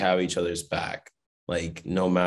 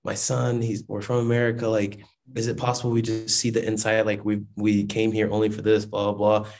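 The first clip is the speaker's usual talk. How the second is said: lightly imitated pleading mom, slightly higher; retold begging; 4 semitones higher than usual. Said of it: "my mom begged".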